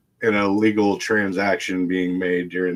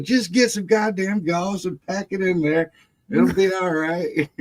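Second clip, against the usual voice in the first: gruff uncle; 10 semitones higher than usual. Retold or imitated. Uncle orders gauze, dismissive.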